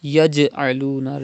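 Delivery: Yaj'aluna with small bounce on jim; jim qalqala. Shown as a demonstration. Teacher models qalqala on jim for students, light bounce. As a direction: let the jim rebound lightly. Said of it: "Return your voice when you pronounce jim".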